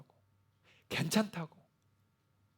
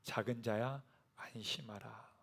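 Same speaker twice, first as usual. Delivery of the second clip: tender comfort; 4 semitones lower, 9 dB quieter, slower than usual. Acted. Jesus voiced tenderly in sermon.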